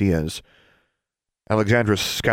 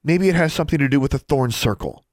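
higher-pitched dramatic suggestion; portentous girlish speculation; 8 semitones higher than usual. Acted. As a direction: unveil the theory with a touch of drama. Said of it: "Alexandra said dramatically".

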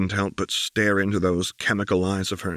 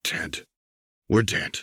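panicked thought; 2 semitones higher, slower than usual. Acted. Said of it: "Vi thought in a panic".

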